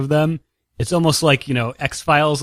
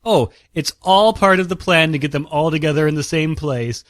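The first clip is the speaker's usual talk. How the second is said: smug villain voice. Retold or imitated. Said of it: "she's just like".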